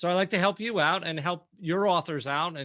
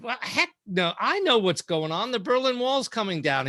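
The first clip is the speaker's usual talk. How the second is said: indignant retort; 5 semitones higher than usual. Retold or imitated. Indignant reply to teasing editor.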